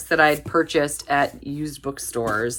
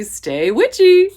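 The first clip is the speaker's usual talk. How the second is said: drawn-out, higher, louder witchy sign-off; spooky witch read; 12 semitones higher, 8 dB louder, slower than usual. Pretend. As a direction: read it like a playful witch casting a spell. Reading a witchy sticker aloud.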